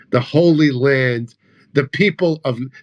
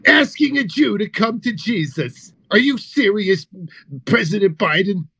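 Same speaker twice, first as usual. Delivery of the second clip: mock outrage; 4 semitones higher than usual. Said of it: "Oh, we bust balls".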